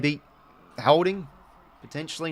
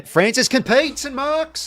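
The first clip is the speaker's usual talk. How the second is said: much higher, slow, drawn-out amazement; amazed call; 12 semitones higher, 6 dB louder, slower than usual. Real, not acted. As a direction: stretch each word in disbelief. Fan amazed by a mark.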